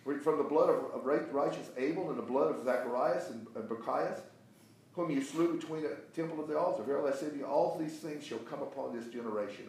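emphatic preacher reading, key words punched; forceful scripture reading. Acted. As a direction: read it out as a rebuke, deliberately. Reads scripture forcefully to class.

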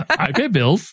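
high, slow mock British accent. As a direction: put on a playful British accent. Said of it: "in my British accent".

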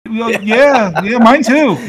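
lightly voiced chatty corpse; buried corpse chatting. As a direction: chat like a bored dead man. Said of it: "people in two different coffins".

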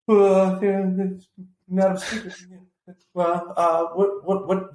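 halting, stammering question full of uhs; hesitant mock interviewer, feeling for words; timid questioner. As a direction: imitate a nervous reporter tiptoeing into an awkward question. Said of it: "he was a little timid".

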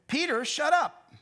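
sharp, slow, loud rebuke; mock scolding. Preacher playing Jesus rebuking Peter, mock stern.

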